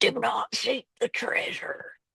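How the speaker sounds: drawn-out, slow, hushed whisper. Retelling a movie scene where Pete whispers to the other prisoners: whispering. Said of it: "Pete just starts whispering".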